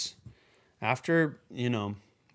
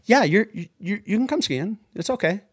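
higher and louder, laughing it off; the boss waving away the worry, up high; boss's reassurance; 10 semitones higher, 8 dB louder than usual. Retold or imitated. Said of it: "He's like".

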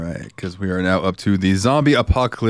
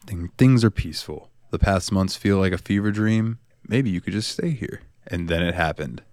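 hushed nature documentary. A narrator's reading. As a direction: set the scene like a storyteller. Game master narrates scene.

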